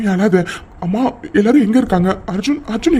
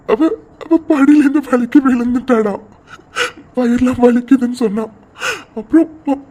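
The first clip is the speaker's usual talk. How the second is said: crying. Acted. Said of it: "குழந்தை மாதிரி அழுதுட்டு இருக்க".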